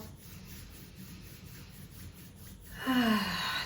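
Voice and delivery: long, audible exhale; deep sighing breath. Shown as a demonstration. Meditation guide showing listeners a deep breath, long sigh. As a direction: let out a long, airy sigh. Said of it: "Taking a deep breath".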